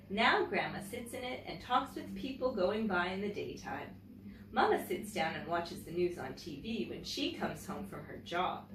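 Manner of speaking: gentle, clear read-aloud storytelling voice; story narration. Acted. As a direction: read it like a picture book to children. Reads a picture book aloud.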